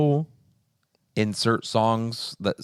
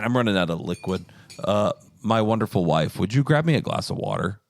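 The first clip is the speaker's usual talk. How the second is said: hoarse voice. Real, not acted. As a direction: voice giving out, hoarse. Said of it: "I'm, like, legit losing my voice".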